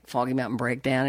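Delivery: usual speaking voice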